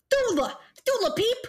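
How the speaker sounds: put-on high, excited country boy voice; eager greeting. Jeb greets Dula.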